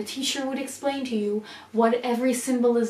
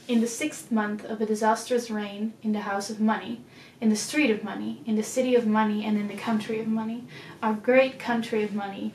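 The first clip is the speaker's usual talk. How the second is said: poem reading. Acted. Vlogger reading a war poem to viewers, measured recital. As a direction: read the poem aloud, measured and steady. Reads the intro poem aloud.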